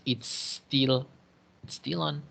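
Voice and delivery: "It's still" with the S pulled onto "still", no vowel before it; "it's still on" linked, said slowly and carefully; joining the S. Shown as a demonstration. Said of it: "y además dices".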